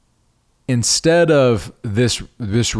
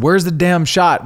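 retold frantic yell; 8 semitones higher, 4 dB louder than usual. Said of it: "I said".

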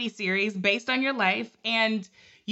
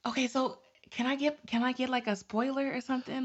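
leaning in to whisper; hushed, secretive ask; 6 dB quieter than usual. Real, not acted. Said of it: "this whisper voice".

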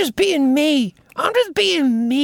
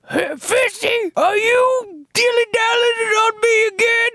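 higher, nagging wife puppet voice; Missus Fisty; 6 semitones higher than usual. Acted. Missus Fisty catching her husband, in a higher nagging wife voice. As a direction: scold like a suspicious wife. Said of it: "Here comes Missus Fisty".

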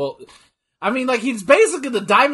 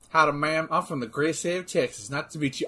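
softer, lightly put-on Texan cowboy accent; 2 semitones lower, 6 dB quieter than usual. Texan introduces himself to a ma'am, light cowboy accent. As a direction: greet her like a polite Texan cowboy. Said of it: "just a cowboy and go".

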